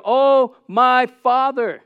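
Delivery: high, loud, slow plea; desperate cry. Retold or imitated. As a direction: cry out in total desperation to the Father. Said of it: "In total desperation, he cried out".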